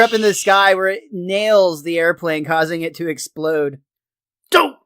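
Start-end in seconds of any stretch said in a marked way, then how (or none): 4.5-4.8 short, falling yelp of dismay; exclaimed dismay. Acted. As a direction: blurt it out like a cartoon dad. Homer's yelp after plane explodes.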